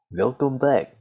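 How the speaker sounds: lightly voiced Russian accent on "Welcome back"; a hint of Russian accent, "vilkəm pæk"; playful Russian-accent podcast intro; mock Russian intro. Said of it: "I'll just go".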